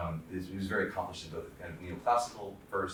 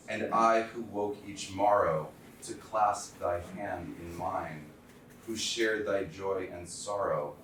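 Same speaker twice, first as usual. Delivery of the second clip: slow, solemn recital of an elegy; poem reading; 3 dB louder, slower than usual. Acted. Lecturer reading a poem for his dead friend to students, slow and solemn. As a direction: read each line slowly, letting the grief sit. Reads memorial poem aloud.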